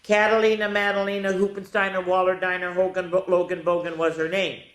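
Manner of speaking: rhythmic run through the long name; announcing the title; reciting the long name. Shown as a demonstration. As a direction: roll the name out like a chant. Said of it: "the name of the book is".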